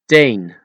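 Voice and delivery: put-on Teen with Dutch long ay, no puff on T; unblown T. Shown as a demonstration. Teacher showing Dutch letters, Teen with unblown T. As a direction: say Teen in Dutch, T cut short. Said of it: "without blowing those three letters".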